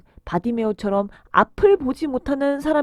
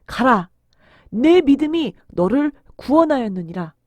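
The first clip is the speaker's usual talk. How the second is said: solemn Jesus; 4 dB louder than usual. Acted. Jesus pronounces the healing.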